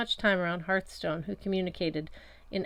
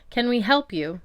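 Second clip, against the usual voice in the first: cop voice; 5 semitones higher, 7 dB louder than usual. A narrator's reading. Cop's sneering question to narrator.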